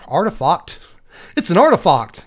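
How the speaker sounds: lightly put-on British "artifact"; British accent. Card reviewer playing with how artifact sounds, mock British accent. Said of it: "suddenly developed a British accent".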